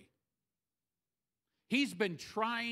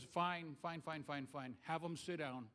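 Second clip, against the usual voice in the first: soft, tired giving in; weary resignation; 5 semitones lower, 9 dB quieter than usual. Retold or imitated. Jesus to his disciples, a soft weary giving in. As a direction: sigh it out like a spent man. Jesus voiced, worn out by crowds.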